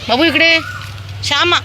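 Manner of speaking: very high, loud call. Real, not acted. Woman calling Babu and Shyama over, high loud call. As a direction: shout the dogs' names across the street.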